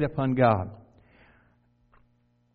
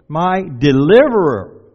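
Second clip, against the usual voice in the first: proclaimed; 9 dB louder, slower than usual. Acted. Preacher proclaims the verse.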